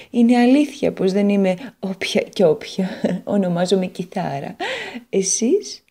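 a gentle, courteous lady guitar introducing herself; a hint of a dignified guitar; Guitar character voice.

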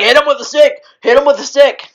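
urging yell at the screen, high and loud; cheering yell. Retold or imitated. Yelling at the movie, cheering on the crowd. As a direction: cheer them on: hit him. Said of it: "and I'm like".

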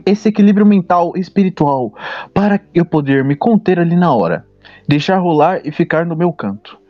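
news anchor reading the headline. Acted. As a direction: read it like a TV news item. Reads out a news story.

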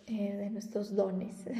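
soft breathy whisper, slowed down; whispering a shy little aside. Real, not acted. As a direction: drop to a whisper for this bit. Unvoiced aside mid-sentence.

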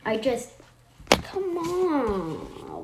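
lightly voiced insistent mom; mother's voice. A narrator's reading. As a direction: push her along like mom.

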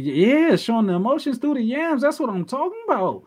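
high, excited hype. Real, not acted. Gushing about the wrestler's photo, high and excited.

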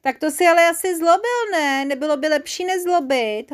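high-pitched scolding question; mildly sharp telling-off; snapped reproach. A narrator's reading. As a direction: challenge the naughty culprit. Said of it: "houkla na něj koukalka".

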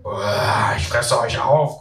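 slow, grunted troll threat; a playful monster chasing kids; grunting troll. Acted. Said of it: "grunze ich".

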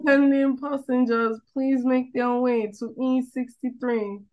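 high, slow nasal tannoy voice; nasal announcer voice. Retold or imitated. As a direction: mimic the nasal airport woman. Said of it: "It's that nasally woman that gets me".

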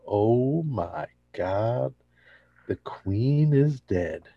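mock grief. Jerry and George mocking Elaine's loss, dramatic. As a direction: mourn it like royalty died. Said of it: "they're like".

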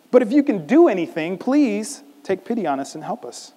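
high, pushed begging, easing in volume; exasperated plea. Acted. Father begs Jesus to help his son, exasperated. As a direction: beg as a father at his wits' end. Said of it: "this exasperated father saying".

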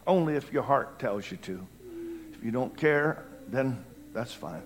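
soft, low invitation; gentle altar call. Real, not acted. Preacher inviting people to make their way forward, gentle and soft. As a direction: invite them quietly, without pressure.

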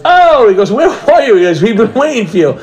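surprised uncle. Retold or imitated. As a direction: play the relative calling out in surprise. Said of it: "one of the guys goes".

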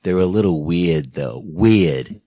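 imitating a thick Boston "weird"; Boston accent, leaning hard on "weird". Host mimicking the actor's line to his co-host, Boston accent. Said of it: "he laid the Boston accent on".

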